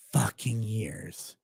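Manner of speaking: slow whispered fucking; breathy aside; whispered curse. Real, not acted. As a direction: hiss it under your breath. Exasperated aside about six years.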